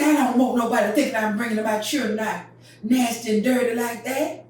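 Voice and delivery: high, loud indignant mother; indignant mama. Retold or imitated. Mama protesting to daddy about the dirty dress, high and loud. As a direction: protest about her children's looks. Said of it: "She said".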